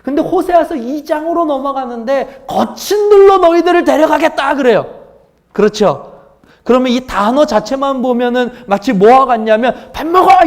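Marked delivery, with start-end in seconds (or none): 2.5-4.5 much higher, louder, menacing declaration; harsh threatening tone. Shown as a demonstration. Pastor shows how the verse sounds when read as harsh judgment. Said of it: "결코 고함치는 단어가 아닙니다". 9.9-10.5 밥 먹어 yelled much higher and louder; shouting. Shown as a demonstration. Pastor shouts 밥 먹어 to show a harsh sound. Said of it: "고함치는".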